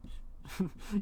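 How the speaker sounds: soft, breathy chuckle; quiet laugh. Real, not acted. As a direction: snicker voicelessly at your own joke. Laughs at own accent.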